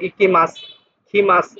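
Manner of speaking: "মাস" ending on s without u; model pronunciation. Shown as a demonstration. Teacher modelling verbs for students, "মাস" with silent u. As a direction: close "ইকি মাস, কি মাস" on a plain s. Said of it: "এভাবে উচ্চারণ করবেন".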